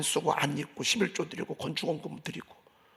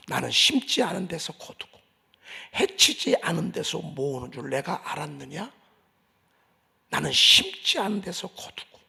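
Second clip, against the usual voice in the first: stern rebuke; 4 dB louder than usual. Acted. 주인이 종을 꾸짖는 말 인용.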